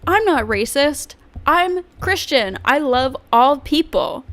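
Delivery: lightly put-on pious protest; Nick Fuentes. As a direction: parody a man insisting on his innocence. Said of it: "Nick Fuentes says".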